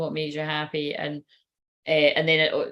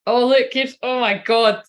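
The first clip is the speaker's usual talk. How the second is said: excited; 4 semitones higher, 6 dB louder than usual. Real, not acted. The card she hoped for appears.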